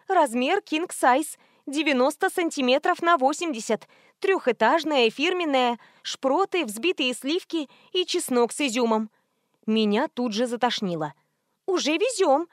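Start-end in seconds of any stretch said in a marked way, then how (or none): 0.1-9.1 squeaky woman voice. Acted. Prankster posing as a woman selling pizza, squeaky and high. 11.7-12.5 high squeal of a pushy woman. A narrator's reading. Fake pizza woman squealing at the heroine, high and shrill. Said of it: "верещала бабёнка".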